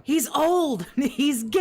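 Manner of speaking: high, jeering cry broken by laughter; mocking shout. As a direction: crow each taunt, stretching the last word. Chanting mocking catchphrases between laughs.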